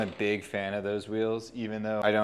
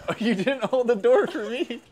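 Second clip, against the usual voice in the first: laughing tease; 13 semitones higher, 6 dB louder than usual. Real, not acted. Teasing partner about the door.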